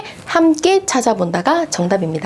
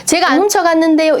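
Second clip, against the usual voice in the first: higher, mildly indignant protest; defensive denial; 6 semitones higher than usual. Shown as a demonstration. Caregiver wrongly denying a patient's accusation, mildly indignant. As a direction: push back as if wrongly accused. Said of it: "이러시면 안 됩니다".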